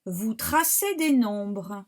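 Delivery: clear, connected teacher's read-through; reading aloud. Shown as a demonstration. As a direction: read the whole sentence through in one go. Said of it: "Je la lis".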